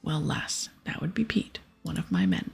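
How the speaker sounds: a hint of a pirate brogue; pirate captain. Captain assuring the hero she agreed to help, lightly voiced pirate. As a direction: swear it like a sea captain. Captain explains past events.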